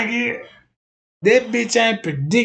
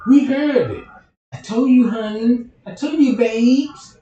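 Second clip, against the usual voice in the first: higher and louder, hammed-up excited chorus; excited crowd; 5 semitones higher, 5 dB louder than usual. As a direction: gush it like a believing fan. Crowd reacting to the psychic reading.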